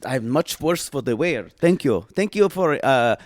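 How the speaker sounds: lightly put-on Eastern European accent; halting thanks in a comic accent; cousin Olga. Visiting cousin greeting the hosts, halting accented voice.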